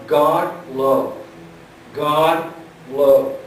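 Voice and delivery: "God" and "love" each set apart with weight; stress on God, love. Shown as a demonstration. Preacher showing the congregation where the Greek puts emphasis, stressing "God love". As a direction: land separately on "God", then on "love". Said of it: "the emphasis on".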